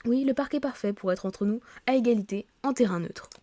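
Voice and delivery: lively read-aloud of story dialogue; reading game dialogue aloud. Acted. Office colleagues agreeing on the park for welcome drinks, animated read-aloud. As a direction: read the characters' lines clearly, a little animated.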